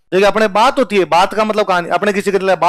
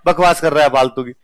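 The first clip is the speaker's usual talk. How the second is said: teacher laughing him down; laughing dismissal. Retold or imitated. Teacher laughing off the student's answer, chuckling dismissal. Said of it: "sir ने कहा".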